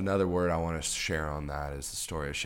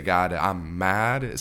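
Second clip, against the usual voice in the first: slow, louder, drawn-out mock anger; mad prayer; 6 dB louder, much slower than usual. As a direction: stretch each word of a pretend angry prayer. Voicing an honest prayer.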